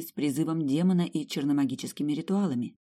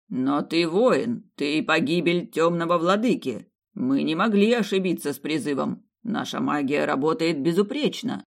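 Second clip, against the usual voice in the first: persuasive priest; 4 dB louder than usual. Acted. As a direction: talk her into it calmly. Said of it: "Плас говорил очень убедительно".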